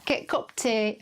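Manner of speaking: imitated Yorkshire accent; lightly put-on Yorkshire lilt. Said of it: "Was that my Yorkshire accent".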